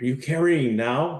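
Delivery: mock eager excitement. Retelling a friend asking whether he is carrying, imitating a friend's excited question. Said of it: "Very excited voice".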